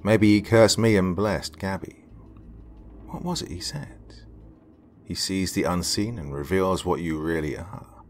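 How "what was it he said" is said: whispered wondering. A narrator's reading. Narrator recalling in whisper.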